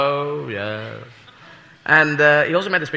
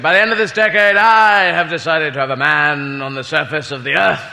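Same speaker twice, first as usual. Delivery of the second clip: mock Macmillan; 4 semitones lower than usual. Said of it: "he made a speech where he said".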